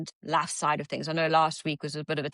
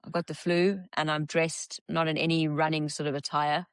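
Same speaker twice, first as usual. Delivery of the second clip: husky flu voice; hoarse and croaking from the flu; croaky voice. Real, not acted. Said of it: "this husky, croaky voice".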